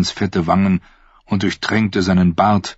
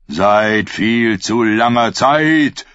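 anguished cry; 3 semitones higher, much slower than usual. Acted. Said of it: "rief Aeron voller Qualen".

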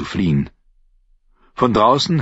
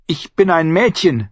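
higher sniffling plea; snotty crying; 8 semitones higher than usual. A narrator's reading. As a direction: sniffle it through tears. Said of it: "schniefte sie".

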